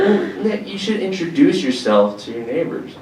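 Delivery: hammed-up mother advice; imitating mom. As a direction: nag like a prim mother. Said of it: "She's like".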